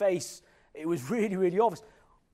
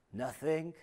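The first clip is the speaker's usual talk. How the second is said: small, softer denial; child caught out; 2 semitones lower, 6 dB quieter than usual. Retold or imitated. Child answering the head teacher, quietly evasive. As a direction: imitate a guilty child playing innocent. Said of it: "and I'm saying to her".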